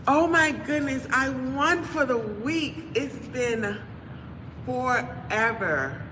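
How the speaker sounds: high, slow gleeful squeal; shrieking jackpot winner. Real, not acted. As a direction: gush over winning the week. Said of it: "Let me know when you're done celebrating".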